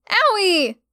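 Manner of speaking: high pained shriek. Acted. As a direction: shriek in pain. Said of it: "she shrieked".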